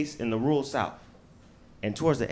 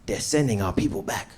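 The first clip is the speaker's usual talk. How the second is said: worried dad; 5 semitones lower than usual. Retold or imitated. Dad on the phone warning his son. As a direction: warn your son gently and low. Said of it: "He's like".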